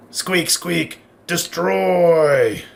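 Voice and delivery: a squeaky, lightly voiced rat monster; squeaky rat creature. Rat monster growling at the heroes, lightly voiced. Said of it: "As it speaks kind of broken common".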